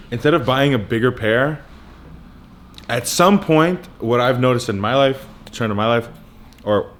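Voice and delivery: talking while chewing gum; words round a wad of gum. Real, not acted. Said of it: "hard to speak with gum in your mouth".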